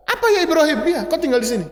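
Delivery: playfully imitating a nonchalant reply; mock casual reply. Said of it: "Hajar nggak bicara seperti itu". (jawaban santai bercanda, nada lebih tinggi)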